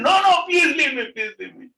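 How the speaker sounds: very high, loud frantic plea; acted panicked cry; shouting. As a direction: refuse and beg in a yell, then drop off. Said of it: "Why are you shouting".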